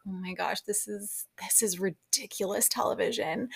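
under-the-breath astonishment, retold; hushed disbelief. Viewer recalling her reaction to ridiculous TV, hushed disbelief. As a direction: softly marvel at the absurdity.

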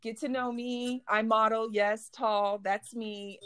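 strut it like a supermodel; diva posing as Tyra Banks. Retold or imitated. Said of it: "And I'm just like".

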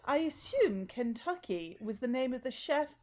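posh snob voice. Acted. Sketch character, posh snob.

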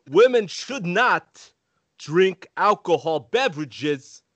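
slow, oddly stressed warning label; lightly voiced Walken reading a warning; Christopher Walken impression. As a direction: halt between words like Walken. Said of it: "Let me see what I can do".

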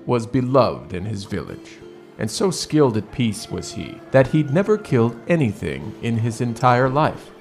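ordinary talk, nothing marked

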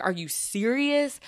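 mock disbelief, stretched out slowly; retold indignation. Telling of the doctor's office turning her away, indignant. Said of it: "I was so mad".

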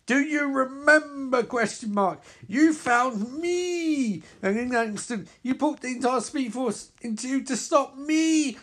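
villain narrating the hero's past; villain narration. Acted. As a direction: ask it like a cruel reminder.

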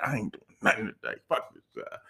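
low whisper to a coworker. Retold or imitated. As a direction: whisper it so the boss can't hear. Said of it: "you whisper to your coworker".

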